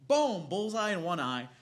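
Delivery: loud, high thrilled play-by-play; loud, high excited retelling. Real, not acted. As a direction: burst out with glee.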